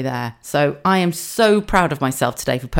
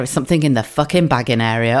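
mock-irritated repeat, dropping lower; lower, sweary exasperation; exasperated; 4 semitones lower than usual. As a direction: repeat the warning, fed up with it. Fed up with the self-checkout warning.

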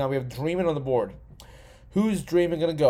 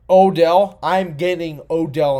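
loud, rising shout of the name; excited shout; 2 semitones higher, 8 dB louder, slower than usual. Real, not acted. Drafter spots his favourite player, shouting excitedly. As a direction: suddenly call out the name with delight. Spots Odell still on board.

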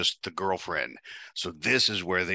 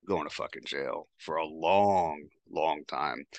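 grim inner thought; 4 semitones lower, slower than usual. Retold or imitated.

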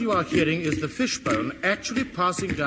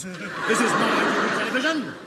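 stern; 4 semitones higher than usual. Acted. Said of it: "repeated line".

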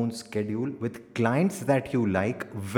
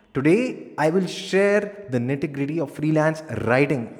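energetic; 2 semitones higher than usual. Shown as a demonstration. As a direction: pitch it up with energy. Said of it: "energetically बोल सकते हैं।".

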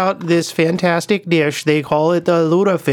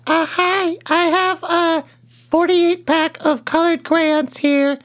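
put-on caller voice; 8 semitones higher than usual. Prank caller asks the radio host for help, lightly raised put-on voice. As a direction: play a clueless caller, voice pitched up. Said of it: "I'm running out of accent".

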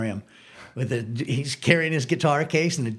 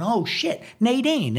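panicked reply; 9 semitones higher, slower than usual. Retold or imitated. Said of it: "And I'm going".

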